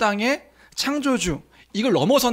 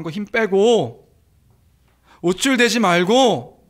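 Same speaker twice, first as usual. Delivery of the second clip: firm, rising warning building louder; stern rebuke; 4 dB louder than usual. Acted. Priest warns proud Abraham, stern building rebuke. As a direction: rebuke him, growing louder at the end. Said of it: "이렇게 지금 선포해주고 있는 거예요".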